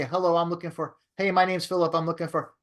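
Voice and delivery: run-on cold-call opener, read off with little emphasis; wrong phone tonality. Shown as a demonstration. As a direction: demo how not to greet a customer. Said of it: "you're not gonna say".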